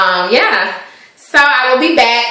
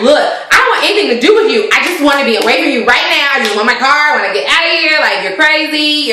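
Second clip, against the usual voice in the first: quick, higher-pitched fed-up retort; mock exasperation; 4 semitones higher, faster than usual. Friend wants her car and out, mock exasperated. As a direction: imitate someone desperate to get away.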